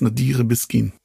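Nadire Biskin said the German way; Germanised pronunciation. Shown as a demonstration. Host checking the guest's name, German pronunciation of Nadire Biskin. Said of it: "immer schon deutsch ausgesprochen".

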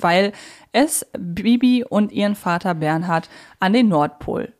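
ordinary talk

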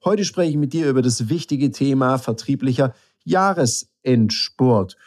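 blocked nose from a cold; nasal, stuffed-up voice from a head cold. Real, not acted. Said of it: "du hörst mich heute ein bisschen nasaler als sonst".

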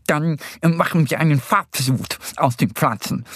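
lightly voiced, bouncy Easter Bunny; explaining hare. A narrator's reading. Easter Bunny explaining dye to Mo, lively. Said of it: "erklärt der Osterhase".

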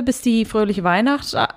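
tipsy, slurring and stumbling. Real, not acted. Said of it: "Ich bin betrunken".

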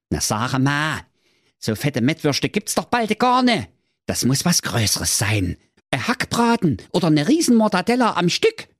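cartoonish young prince answering his father; dopey prince. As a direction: play the obedient prince, a bit dim. Prince voiced in story.

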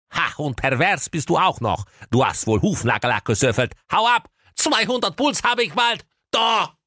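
high scolding, climbing to a squawk; indignant outburst. A narrator's reading. Farrier outraged by the shoe-sniffer, high indignant squawk. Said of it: "Da rief sie erbost".

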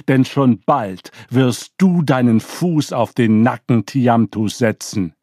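put-on rally the old god with confident promises; proud young god. Marduk vows to his grandfather Anschar, proud and rousing.

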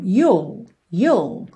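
you'll said like you plus L; you'll pronounced as spelled; you'll as written. Shown as a demonstration. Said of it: "praticamente como se escreve".

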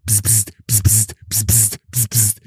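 string of short psst noises; quick repeated sibilant bursts, like incoming alerts; imitated phone buzzes. Guest imitating his phone as it switches on, hissy bursts.

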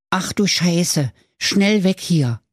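high, stretched piglet voice; alarmed piglet. A narrator's reading. Lila sees her house blown away, alarmed piglet voice. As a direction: exclaim it high, drawing out the words. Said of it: "Und die Lila stand da in Unterhosen und sprach".

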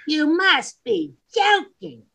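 high, drawn-out mock London accent. Host doing his favourite London saying, mock London accent. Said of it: "favorite thing that they say in London".

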